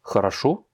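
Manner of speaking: "Хорошо" said kha-ra-SHO; last-syllable stress. Shown as a demonstration. Teacher reads the second word, stress on the final O. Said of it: "l'accent tonique est sur le troisième O".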